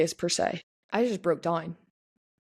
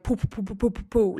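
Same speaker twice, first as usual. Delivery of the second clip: imitated pressure-cooker explosion; 3 semitones higher than usual. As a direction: run of popping "poo" noises. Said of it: "like a pressure cooker just exploded".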